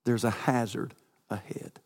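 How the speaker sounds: lightly voiced nav app; GPS voice. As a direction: read it like a sat-nav warning. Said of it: "That's what it says".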